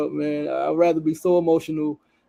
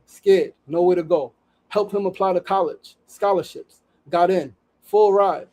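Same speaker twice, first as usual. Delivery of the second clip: raised, storytelling read of a post; reading a post aloud. Acted. Host reading an Instagram story to viewers, earnest read.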